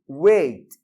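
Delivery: ordinary delivery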